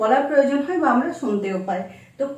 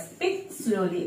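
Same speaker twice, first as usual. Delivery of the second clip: soft; 4 semitones lower, 8 dB quieter, much slower than usual. Shown as a demonstration. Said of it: "এটার জন্য এইভাবে বলতে পারি".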